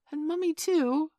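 high, loud eager cry; eager children. A narrator's reading. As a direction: clamour excitedly like a child. Children clamour for parents to dance.

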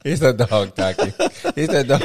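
put-on amused copy of a Portuguese accent; attempted Portuguese accent. Co-host echoing her mum's line, attempted Portuguese accent. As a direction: mimic a Portuguese accent, half laughing. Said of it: "attempt it because it sounds offensive".

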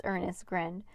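usual speaking voice

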